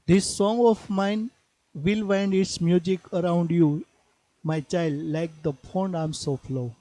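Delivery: slow, measured poetry reading; poem recitation. Acted. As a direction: read the verse slowly, phrase by phrase. Reads poem lines aloud. (ધીમું કાવ્ય પઠન)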